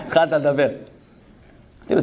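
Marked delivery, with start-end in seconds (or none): 0.0-0.7 laughing. Real, not acted.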